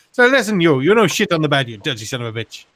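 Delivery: receptionist scolding in the mock accent; Italian accent. Receptionist scolding the tourist in a mock accent. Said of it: "the Italian".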